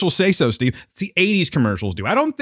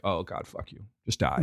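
muttered grumble; 6 semitones lower, 12 dB quieter than usual. Retold or imitated. Imitated inner reply, muttered.

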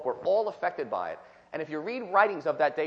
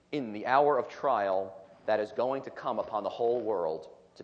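scripture reading. Acted. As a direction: read each phrase deliberately, with weight. Reads scripture aloud.

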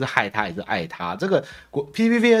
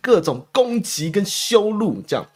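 higher, whiny mock quote of a politician; lightly voiced indignant politician, pitched up; mocking the chairman; 7 semitones higher, 3 dB louder than usual. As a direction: pitch it up to mock her complaint. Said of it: "这个朱主席被访问的时候就说".

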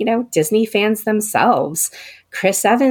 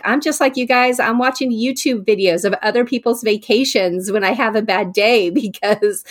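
retold fan enthusiasm, pitched up; mildly excited; 5 semitones higher than usual. Actor confessing to fellow Disney fans, mildly excited. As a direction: gush a little, in a higher voice. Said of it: "he was so excited".

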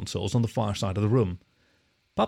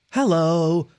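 high, cheerful greeting; brightly; 6 semitones higher, 5 dB louder than usual. A narrator's reading. The hologram tutor greets the children, bright and cheerful. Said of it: "the deer said brightly".

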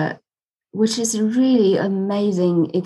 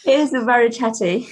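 said through a real laugh; giggling as the words come out; 7 semitones higher than usual. Real, not acted. Guest laughing to the host about her chatty cat, laughing.

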